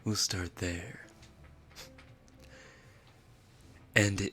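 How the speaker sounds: lightly voiced anime captain giving orders; deliberate, pausing anime character voice in English; Levi Ackerman. Streamer improvises the captain ordering a newcomer to clean, Levi Ackerman impression. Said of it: "but try it in English".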